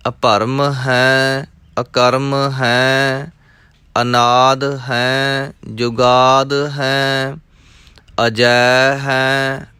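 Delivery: measured, rhythmic chanting of verses; scripture recitation. Acted. Teacher reciting scripture for students, rhythmic and measured. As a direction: recite each line as sacred text, evenly.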